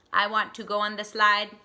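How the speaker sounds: stiff, even robot voice. Acted. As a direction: speak it like a machine, each word flat. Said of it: "he should say that in a robot voice".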